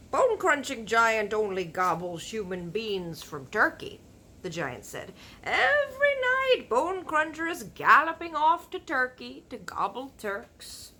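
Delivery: big friendly giant warning about cannibal giants; BFG giant voice. Acted. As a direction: boom out the giant's grim warning. Giant's voice in story.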